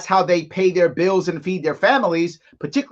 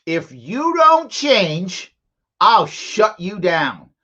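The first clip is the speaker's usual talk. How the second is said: mock threat; much slower than usual. Mocking the governor as father.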